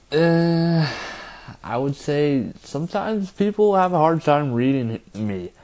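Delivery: lisping around a retainer. Real, not acted. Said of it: "this lisp is really bad with my retainer in".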